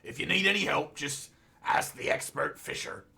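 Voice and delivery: lightly voiced character slipping out; a hint of Joe. Player offers help in character, lightly voiced Joe. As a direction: let a familiar character voice creep in. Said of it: "trying to not do the Joe voice".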